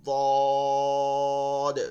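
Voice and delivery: দদ spoken loud with a bounce on the final the; bounced letter. Shown as a demonstration. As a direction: push দদ out with a knock. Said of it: "সদের মতন ধাক্কা দিব". (দদ, শেষে ধাক্কা দিয়ে)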